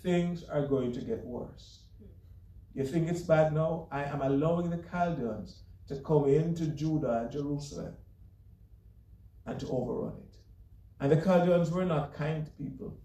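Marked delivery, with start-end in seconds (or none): 0.0-10.4 a touch of grave divine warning; God warning Habakkuk of worse to come; voicing God. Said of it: "Here's what God says".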